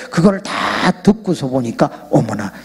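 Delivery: ordinary talk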